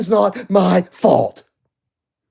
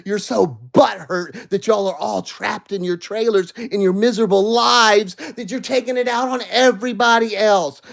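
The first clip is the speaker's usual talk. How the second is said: angry rant; 5 semitones higher than usual. Real, not acted. Heated rant at Mara.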